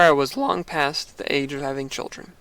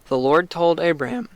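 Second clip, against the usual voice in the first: voice cracking. Real, not acted. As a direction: voice breaks on the words. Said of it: "I'm having bad cracks today".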